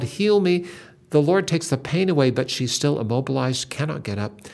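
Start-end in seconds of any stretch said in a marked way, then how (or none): 0.0-0.7 mild cry to God. Retold or imitated. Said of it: "She cries out to God".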